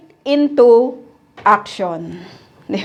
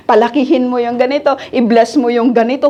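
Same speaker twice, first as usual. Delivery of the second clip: mock demanding prayer; faster than usual. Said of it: "you are commanding God".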